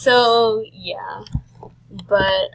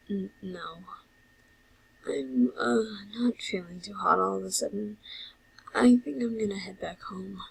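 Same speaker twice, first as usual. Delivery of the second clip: hesitant, faltering start, understated unease; lightly voiced unwell Sans; 6 dB quieter than usual. Sans excusing himself to his brother, mildly unwell. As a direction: play a brother quietly feeling off.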